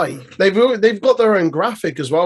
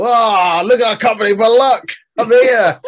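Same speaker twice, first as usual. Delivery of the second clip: a bit higher and louder, giddy rookie; Fraser impression; 6 semitones higher, 5 dB louder than usual. Co-host mocking Fraser's giddy promo, a bit higher. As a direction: gush as if you can't believe your luck. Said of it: "I don't know why I'm making him".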